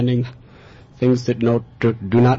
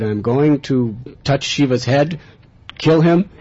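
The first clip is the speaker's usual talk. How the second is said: loud, rising demon boast; demon's boast; 5 semitones higher, 6 dB louder than usual. Acted. Demon boasting to the boy Krishna, loudly. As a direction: shout out the plan to kill. Demon declares his evil plan.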